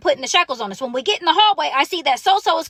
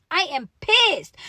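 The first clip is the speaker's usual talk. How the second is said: slow, deliberate PISSED, drawn out for emphasis; 2 semitones higher, much slower than usual. Retold or imitated. Woman after hearing her bail, pissed, PISSED slow and weighty. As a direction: spell out the anger, stretching PISSED. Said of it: "I'm pissed".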